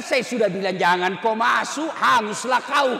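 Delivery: loud comic I-told-you-so; hammed-up loud rebuke; mock scolding. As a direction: scold loudly for a laugh. Mock scolding of burnt lift passenger.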